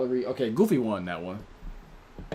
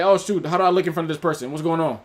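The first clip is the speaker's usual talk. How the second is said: fast, higher, louder worried inner voice; anxious teen; 4 semitones higher, 5 dB louder, faster than usual. Retold or imitated. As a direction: play a panicked teenager second-guessing. Voicing a self-conscious teen.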